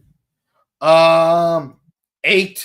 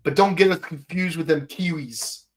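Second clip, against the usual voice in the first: put-on laid-back Australian accent; chill Australian. Podcaster posing as an Aussie fond of the outback, relaxed Australian accent. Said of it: "a lot more chill of a voice".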